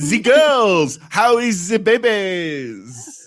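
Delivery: fake French accent. Imitating Tyra's put-on French accent on the show: put-on French accent. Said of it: "she is doing her patented French accent".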